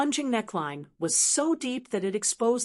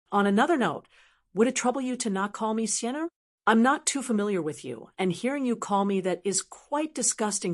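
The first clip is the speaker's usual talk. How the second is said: careless. Acted. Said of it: "She carelessly said".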